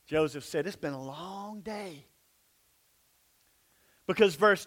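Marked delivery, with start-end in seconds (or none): 0.7-2.1 mock weary. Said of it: "Joseph's tired".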